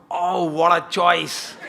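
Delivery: very slow, savouring oh what a choice; drawn-out delighted compliment; admiring praise. Shown as a demonstration. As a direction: gush over the choice with a laugh. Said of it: "વધારે આનંદ લેવો હોય ને કરાવવો હોય તો".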